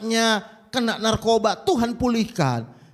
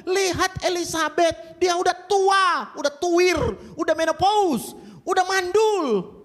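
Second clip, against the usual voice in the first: God's voice through an angel; 10 semitones higher than usual. Acted. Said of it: "Tuhan lewat malaikatnya bilang kepada Maria".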